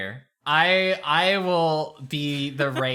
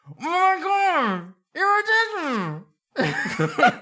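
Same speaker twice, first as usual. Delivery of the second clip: high, slow starstruck gush; gushing fan; 13 semitones higher, slower than usual. Acted. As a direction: swoon over her like a fan. Character gushes at princess.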